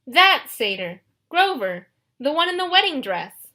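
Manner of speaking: loud impatient yelling; rising loud exasperation; shouting. Acted. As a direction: spell it out angrily. Clarice keeps shouting at cyclops.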